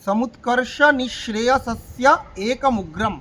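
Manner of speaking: সমুৎকর্ষ, নিঃশ্রেয়সস্য, একমুগ্রম said as separate words; broken into words. Shown as a demonstration. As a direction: speak it word by word, keeping একমুগ্রম apart. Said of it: "কিন্তু আমি ভেঙে ভেঙে বলছি". (সমুৎকর্ষ নিঃশ্রেয়সস্য একমুগ্রম ভেঙে ভেঙে বলা)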